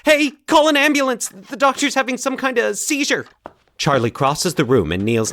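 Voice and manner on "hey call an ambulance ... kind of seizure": much higher, loud alarmed yell for help; panicked shout. Acted. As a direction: call out in panic across the office. Calling receptionist during doctor's seizure.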